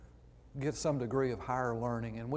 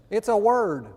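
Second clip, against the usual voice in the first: much higher and louder, outraged It's a word; exasperated disbelief; 9 semitones higher, 13 dB louder than usual. Real, not acted. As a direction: cry out in mock outrage.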